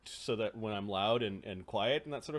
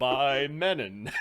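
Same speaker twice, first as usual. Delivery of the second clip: shouted tagline; 5 dB louder, much slower than usual. Pretend. Joke sign-off, shouted.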